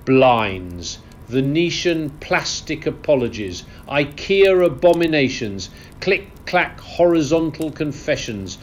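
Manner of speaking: high-pitched indignant rant; mock-outraged aristocratic tirade; theatrical indignation. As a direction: rail against it like an appalled lord. Lord rants against modern homes.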